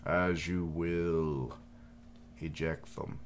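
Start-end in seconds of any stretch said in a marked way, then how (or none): 0.1-1.5 very slow, deliberate answer; solemn servant reply. Acted. Servant acknowledging the lord's order, very slow and solemn. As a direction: answer your lord with gravity.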